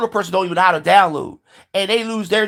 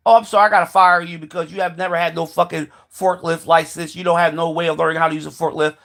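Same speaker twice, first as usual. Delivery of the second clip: lightly voiced boss, lower and even; boss firing someone; 3 semitones lower than usual. Boss to worker losing the forklift job, lightly acted dismissal. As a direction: play a detached boss letting a worker go.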